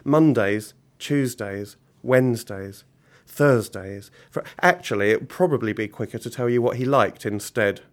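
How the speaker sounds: animated storyteller with measured pauses; story narration. A narrator's reading. Author reading a villain story to children, animated narration. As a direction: read aloud with deliberate comic timing. Reads story aloud to audience.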